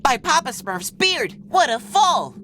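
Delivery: high, punchy outcry; startled exclamation. Acted. Smurf just landed from a fall, startled cry. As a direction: exclaim in amazement after a tumble.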